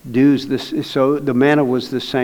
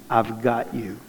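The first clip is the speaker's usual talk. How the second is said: much softer, dying away to near silence; fading reassurance; 3 semitones lower, 10 dB quieter, slower than usual. Retold or imitated. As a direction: let it fade out tenderly. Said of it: "God was saying to me".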